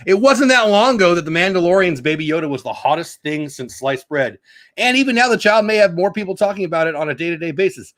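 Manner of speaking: lightly projected article reading; entertainment-news reading voice. Acted. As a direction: read the report out to listeners. Reads an article aloud.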